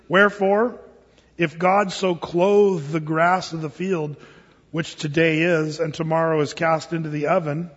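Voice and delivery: slow, measured King James reading; scripture reading. Acted. Pastor reading Matthew aloud in a slow scripture cadence. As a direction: lay the verse out slowly for the flock.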